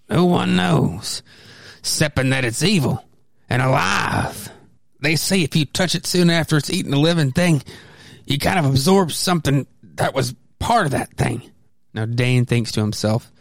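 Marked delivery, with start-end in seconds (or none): 0.1-11.4 lightly voiced old swamp hermit. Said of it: "gave him the old hermit's voice".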